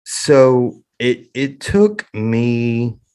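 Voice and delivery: fighting back tears, struggling to get the words out; choking up. Real, not acted. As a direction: voice catching, long painful pauses. Emotional disclosure, choking up.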